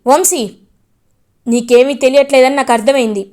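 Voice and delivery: angry scolding. Acted. Gagan scolds in-laws.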